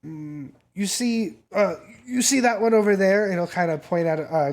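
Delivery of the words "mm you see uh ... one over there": conspiratorial dealer. Acted. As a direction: draw their eye to the target. Dealer points out a girl.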